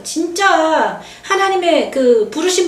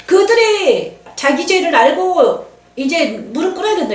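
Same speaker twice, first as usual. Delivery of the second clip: voice of God; 4 semitones higher than usual. Retold or imitated. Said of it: "하나님이 이러시는 거예요".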